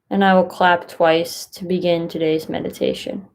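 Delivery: calm, unhurried guidance with long pauses; guided meditation. Acted. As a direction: gently guide listeners into stillness, leaving space between phrases.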